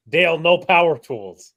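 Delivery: loud, slow movie line shout; Step Brothers quote. Retold or imitated. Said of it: "the scene from Step Brothers".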